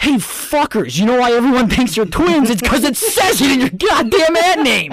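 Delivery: play-acted, very high-pitched, loud, infuriated outburst. Complaining about cousins advertised as twins, retelling own furious rant. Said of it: "I was infuriated".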